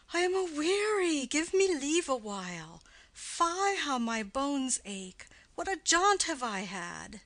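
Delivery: lightly voiced tired old nurse; grumbling old woman, out of breath; weary old nurse. Nurse voice in play reading.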